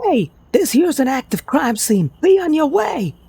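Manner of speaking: loud high Brooklyn cop yell, slow; Brooklyn accent. Acted. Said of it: "yells in a thick Brooklyn accent".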